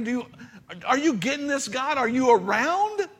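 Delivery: pleading, climbing to a high, loud cry; begging God to notice, rising into a shout; desperate plea to God. Retold or imitated. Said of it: "where we think".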